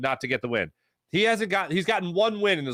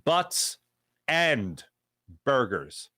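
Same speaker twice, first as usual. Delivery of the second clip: Butts, and, burgers said apart with pauses; slow, deliberate naming of Butts and burgers; emphasized name; 3 semitones lower, much slower than usual. Shown as a demonstration. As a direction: space out Butts and burgers word by word. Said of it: "let me emphasize".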